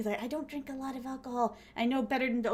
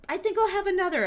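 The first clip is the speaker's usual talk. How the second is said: tipsy request; 8 semitones higher, 5 dB louder, faster than usual. Retold or imitated. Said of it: "And I said".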